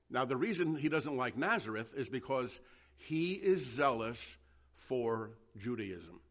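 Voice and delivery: ordinary delivery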